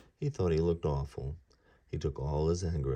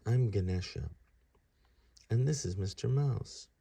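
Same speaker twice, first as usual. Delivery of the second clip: put-on a bit higher, sorry young voice; sheepish god; 5 semitones higher than usual. Ganesha apologising to the old man, higher sheepish voice.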